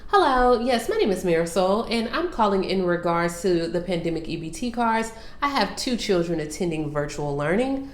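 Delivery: lightly polished, formal caller voice; proper phone voice. Shown as a demonstration. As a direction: sound like a polite caller on the phone. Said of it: "put on your proper voice".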